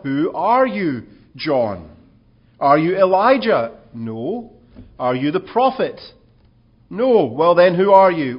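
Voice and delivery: insistent interrogation. Acted. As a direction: corner him with questions. Priests interrogating John, pressing.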